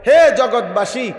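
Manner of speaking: slow, drawn-out call to all the world. Acted. Azrael addressing the people of the world, calling out. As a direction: hail the whole world slowly. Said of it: "পৃথিবীবাসীকে ডাক দিয়া বলে".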